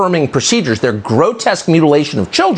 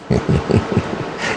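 low-key dismissive laugh; scornful chuckle; 4 dB quieter than usual. Real, not acted. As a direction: chuckle under your breath in disbelief. Scoffing at the quoted demand.

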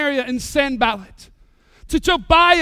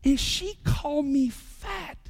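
much softer, slow confiding voice; chaperone confiding; 7 dB quieter than usual. Retold or imitated. Chaperone telling the pastor in a soft, slow confiding voice. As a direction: lean in and tell him quietly, as if a secret. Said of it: "she came up to me and said".

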